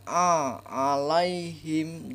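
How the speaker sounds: slow "alaihim" with a throat ain; correct alaihim. Shown as a demonstration. Teacher modelling the right reading, slowly. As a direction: draw out "alaihim" with a clear ain. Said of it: "Jangan dibaca alaihim".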